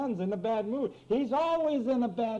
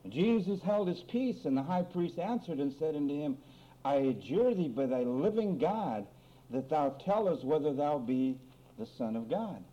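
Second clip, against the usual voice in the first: measured, solemn Bible reading; scripture reading; 3 semitones lower than usual. A narrator's reading. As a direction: read the verse out with deliberate weight. Reads scripture aloud to congregation.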